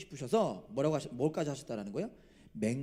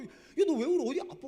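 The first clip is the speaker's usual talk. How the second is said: high-pitched, flustered retold reaction; startled questioning; 12 semitones higher, 9 dB louder than usual. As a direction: imitate being taken aback by someone crying. Retelling his reaction to a crying man.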